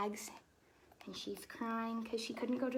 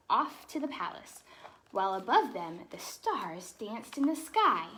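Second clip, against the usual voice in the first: lively storybook read-aloud; animated picture-book narration; reading to children; 4 dB louder than usual. Acted. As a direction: read it like bedtime story time for kids.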